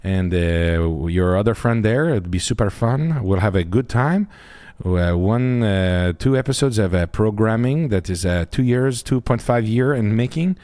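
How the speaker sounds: lightly put-on French accent, mock formal; a hint of a sarcastic French guy; French guy bit. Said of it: "me of your French guy bit".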